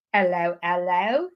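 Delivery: a lightly put-on British accent, half joking; terrible British accent. Shown as a demonstration. Host greeting a London viewer live, in a mock British accent. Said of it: "That's my terrible British accent".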